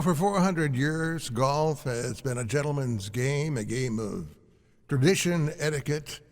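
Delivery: lightly done trailer announcer; slow dramatic trailer read; movie trailer voice. Pretend. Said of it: "You sound like a trailer".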